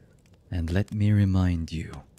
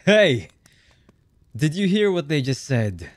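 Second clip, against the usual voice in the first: high, loud villainous shout; angry call; 8 semitones higher, 6 dB louder than usual. Acted. Boss to failing subordinates, loud high-pitched call. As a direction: shout over to your underlings, pitched high.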